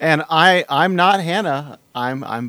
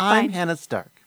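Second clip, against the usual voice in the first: bad put-on high-pitched female voice; 4 semitones higher than usual. Trying out voice acting on a podcast, in a put-on female voice. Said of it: "That's my female voice".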